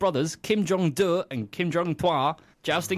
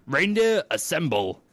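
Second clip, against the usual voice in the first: shouted command; slower than usual. Acted. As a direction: bellow it out like a summons. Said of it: "And so he shouted".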